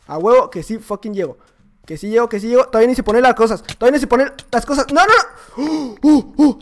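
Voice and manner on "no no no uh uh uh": high, loud panicked no; sudden high alarm; panicked shout. Real, not acted. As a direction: yelp in real panic. Panicking during fight.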